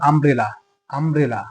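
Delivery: আমব্রেলা opening on a clear a vowel; initial a sound. Shown as a demonstration. Teacher models umbrella for students, clear opening a. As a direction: stress the a at the start of আমব্রেলা. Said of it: "উচ্চারণ হচ্ছে আ".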